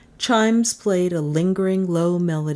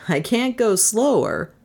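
slightly higher protest, far below her cry; dry Trent; 4 semitones higher than usual. Acted. Driver answering his passenger, mild protest. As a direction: answer back without crying out.

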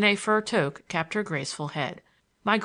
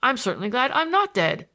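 put-on old grandfather; 6 semitones higher, 4 dB louder than usual. A narrator's reading. Grandfather's voice in read story.

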